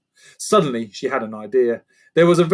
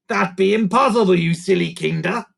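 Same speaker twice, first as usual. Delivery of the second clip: higher goblin taunt; mocking creaker; 6 semitones higher, 4 dB louder than usual. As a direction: belittle the child.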